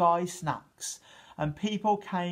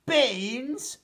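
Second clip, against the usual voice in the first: higher, louder surprised roar; giant's roar; 8 semitones higher, 4 dB louder than usual. A narrator's reading. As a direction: bellow the word in disbelief. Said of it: "roared the giant".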